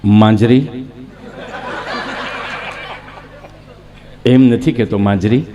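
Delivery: lightly voiced low-pitched man; low acted call; low character voice. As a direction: drop the voice low, rising on the name. Acting out a man calling Manjari.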